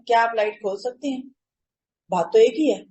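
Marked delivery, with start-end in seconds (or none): 0.1-1.2 gentle asking tone, rising at the end; polite request. Shown as a demonstration. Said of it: "ایک ہے". (نرم لہجے میں درخواست)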